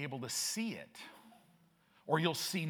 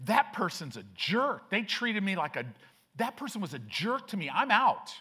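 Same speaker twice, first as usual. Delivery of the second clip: mock offended outburst; 5 semitones higher, 3 dB louder than usual. Voicing an offended churchgoer quitting.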